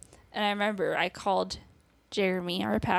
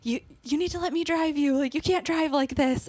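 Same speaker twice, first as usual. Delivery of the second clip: retold scream; 6 semitones higher, 3 dB louder than usual. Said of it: "my mom was screaming after me".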